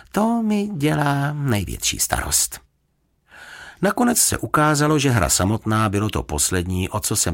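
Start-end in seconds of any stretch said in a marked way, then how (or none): 0.1-2.6 slow, higher-pitched worry; worried sigh. A narrator's reading. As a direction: sigh it out slowly, mildly troubled. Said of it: "povzdychla si paní Fousková". (ustaraně, s povzdechem)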